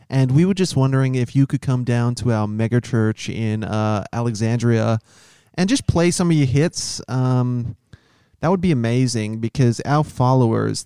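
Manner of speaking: lightly put-on American church caller voice; American camp accent. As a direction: play a chirpy megachurch rep. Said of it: "That was a good accent".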